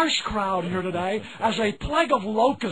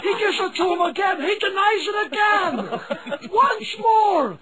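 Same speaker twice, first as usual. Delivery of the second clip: rising higher with each call; building play-by-play; 8 semitones higher than usual. Acted. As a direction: build the excitement line by line.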